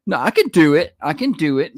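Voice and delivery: insistent mock wife voice; mock-stubborn wife, half sung; mimicking wife. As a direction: parrot her stubborn insistence.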